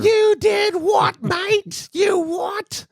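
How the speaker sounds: shouted high, slow mock Cockney; over-the-top English accent yell; hammed-up English accent. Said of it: "I'm working on my English accent".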